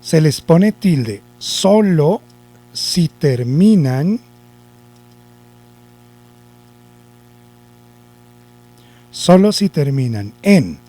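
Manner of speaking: slow dictation with long pauses; dictado lento. Shown as a demonstration. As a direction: dictate it chunk by chunk, slowly. Teacher dictating the rule slowly. (dictando despacio, por pedazos)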